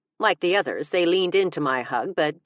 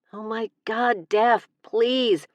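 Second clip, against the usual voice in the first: higher, pleading embarrassment; squirming plea; mortified plea; 7 semitones higher, 4 dB louder, much slower than usual. Acted. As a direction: beg her to stop, mortified.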